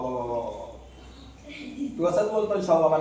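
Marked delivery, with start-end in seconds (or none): 0.0-0.6 a light mock of babyish lisping; teasing imitation of the kid's lisp. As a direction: mimic the child's lisp, lower and softer. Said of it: "बोबडा बोलतो तू".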